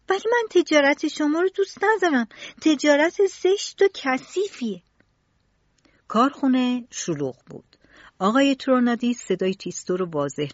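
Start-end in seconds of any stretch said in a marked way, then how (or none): 0.1-4.8 frowning. A narrator's reading. Tistou telling Tronadis his trade is ugly, frowning. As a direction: scold the grown-up with a frown. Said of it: "با اخم گفت".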